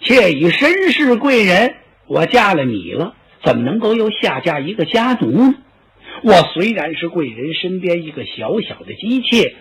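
a hint of weeping in a young concubine's protest; lightly tearful concubine. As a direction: protest your loyalty with a touch of tears. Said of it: "他一边哭着一边说".

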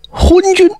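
high furious yell of the insult; angry outcry. Acted. Huang confronting the king over his sister-in-law, furious shout. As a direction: shout it at the tyrant with full force.

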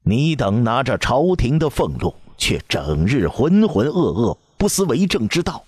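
put-on old empress dowager venting her fury on the ministers; angry scolding. A narrator's reading. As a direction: pitch it up and scold hard. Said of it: "将一腔怒火撒向面前的大臣们".

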